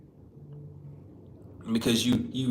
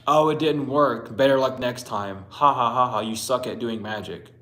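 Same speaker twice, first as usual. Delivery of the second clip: louder, gloating mock with fake laughter; mocking devil; 4 dB louder than usual. Devil taunting someone whose spell failed, gloating jeer. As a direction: taunt them like a jeering demon. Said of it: "The devil mocks you".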